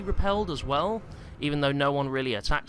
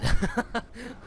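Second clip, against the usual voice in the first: breathless laugh; 8 semitones higher than usual. Real, not acted. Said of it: "I need to breathe".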